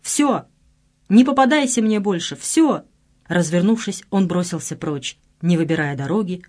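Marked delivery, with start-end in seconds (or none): 0.0-2.8 higher, louder enraged yell; furious shout. A narrator's reading. Sasha yelling at Lena to stay away, furious. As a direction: bark him away in fury. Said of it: "яростно закричал".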